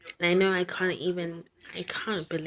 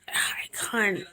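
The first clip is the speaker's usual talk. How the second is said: whisper; 3 semitones higher than usual. Real, not acted. Emotional, voice dropping to whisper.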